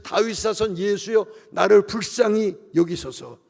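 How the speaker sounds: slow, drawn-out imitated cry; half-shouted mock wail of appeal; retold desperate outcry. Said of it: "이건 외침이고 절규고 비명이에요".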